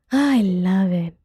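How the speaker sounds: loud, slow, drawn-out gush; gushing delight. Real, not acted. Loving the killer joke, gushing delight. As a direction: stretch it out loudly with delight.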